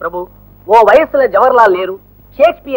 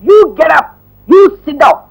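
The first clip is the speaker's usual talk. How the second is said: higher-pitched classroom command; barked order; 5 semitones higher, much slower than usual. Acted. Teacher ordering a pupil back to his seat, sharp command.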